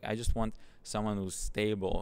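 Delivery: ordinary talk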